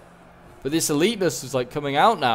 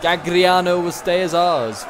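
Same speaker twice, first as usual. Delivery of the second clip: slow, proud vow, louder and a touch higher; defiant defenders; 4 semitones higher, 5 dB louder, slower than usual. Acted. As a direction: declare it like a stubborn garrison. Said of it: "Look at all those angry archers".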